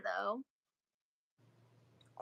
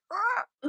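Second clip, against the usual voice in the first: eagle screech; 8 semitones higher than usual. Retold or imitated. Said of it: "how do you do the eagle sound".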